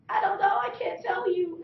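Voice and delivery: high, loud, desperate; choking girl answering her frantic family, panicked; panicked kid. Retold or imitated.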